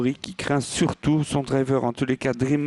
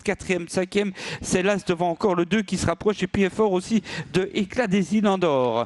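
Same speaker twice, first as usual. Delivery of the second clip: higher, building toward the finish; excited race caller; 4 semitones higher than usual. Real, not acted. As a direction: race call heating up. Live race commentary, rising.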